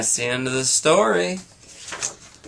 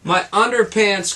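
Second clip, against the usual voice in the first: higher, louder cry of dismay; 5 semitones higher, 3 dB louder than usual. Acted. Charlie spotting the Yeti, louder cry. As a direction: call out for the lost pants. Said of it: "cried Charlie".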